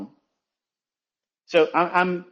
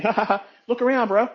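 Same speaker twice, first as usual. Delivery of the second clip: mocking laugh; 8 semitones higher than usual. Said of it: "some of you laughed it off saying".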